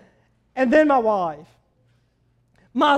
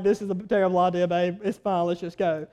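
quiet resignation; 7 semitones lower, 8 dB quieter, faster than usual. Retold or imitated. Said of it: "we're like".

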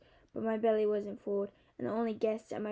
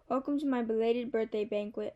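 festive. Acted. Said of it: "in my most festive voice".

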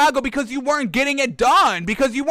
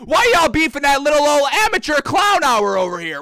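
mock indignant whine; 4 semitones higher, 3 dB louder than usual. Mock outrage at the audience.

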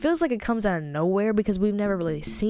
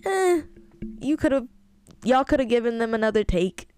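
mock complaint; 3 semitones higher than usual. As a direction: wave off a weak take. Imagined complaint about actors.

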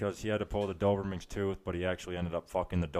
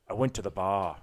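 Irish toast. Retold or imitated. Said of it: "like, the Irish cheers".

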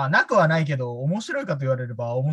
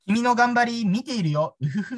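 teasing message voice; 8 semitones higher than usual. Retold or imitated. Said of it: "っていうのが来た".

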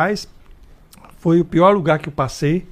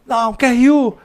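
higher, louder veteran giving radio orders; old cop ordering; 9 semitones higher, 3 dB louder than usual. Retold or imitated. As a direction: push the rookie to call it in. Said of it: "Porque ele fala".

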